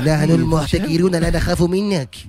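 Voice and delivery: cartoon villain voice. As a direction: boast like a cartoon baddie. Villain gang parody.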